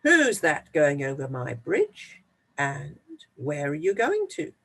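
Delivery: the troll challenging from under the bridge; gruff troll. Acted.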